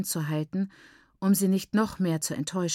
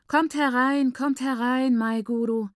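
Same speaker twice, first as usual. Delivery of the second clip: stronger voice; 6 semitones higher than usual. A narrator's reading. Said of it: "mit kräftigerer Stimme".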